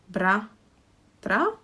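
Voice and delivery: Bra-tra split into bra and tra; two syllables. Shown as a demonstration. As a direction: break bratra into two clear syllables. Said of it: "have two syllables".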